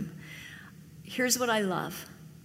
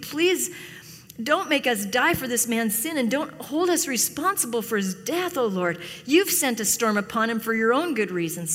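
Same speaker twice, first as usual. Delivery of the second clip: pleading prayer. Acted. Sailors praying to Jonah's God for their lives, pleading. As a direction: cry out to God with a touch of desperation. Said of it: "they pleaded".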